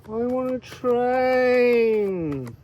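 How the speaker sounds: very slow, high, drawn-out Welsh plea; Welsh accent. Pretend. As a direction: stretch it out longingly in a Welsh accent. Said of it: "I'm not very good at Welsh accent".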